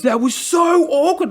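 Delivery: high, slow mock voice of the awkward guy; a lightly voiced squeamish colleague; imitated awkward guy. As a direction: colleague mocked as he squirms at the awkward moment, high and drawn out.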